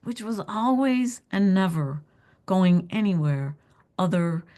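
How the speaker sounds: deliberate poem reading with pauses between phrases; poetry reading. A narrator's reading. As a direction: let each image land before moving on. Author reads her poem aloud.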